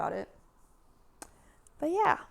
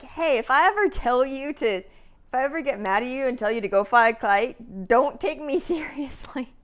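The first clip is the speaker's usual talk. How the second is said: loud, raised-pitch retelling of a boss; higher and louder, quoting someone emphatically; emphatic quoted warning; 5 semitones higher, 8 dB louder than usual. Retold or imitated. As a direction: act out a manager's insistent heads-up.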